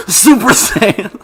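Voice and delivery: slow, dramatic anime power-up; Goku power-up yell. Retold or imitated. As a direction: drag it out like a transforming hero.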